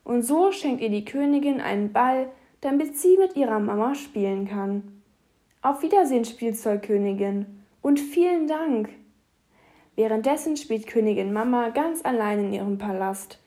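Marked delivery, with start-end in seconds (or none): 5.6-8.9 fairy tale princess. Acted. Princess says goodbye.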